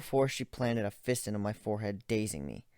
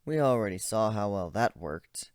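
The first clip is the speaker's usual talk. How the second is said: emotionless. Acted. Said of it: "I replied emotionlessly".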